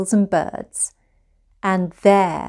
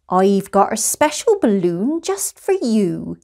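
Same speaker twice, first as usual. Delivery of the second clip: secretive balloon seller. Acted. Balloon seller offers a gift.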